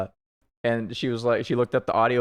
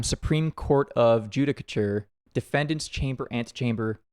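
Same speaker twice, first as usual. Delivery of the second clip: measured, slightly lowered inner monologue; game story narration; 3 semitones lower than usual. Acted. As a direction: read as the defendant awaiting his fate. Reads game text, defendant's monologue.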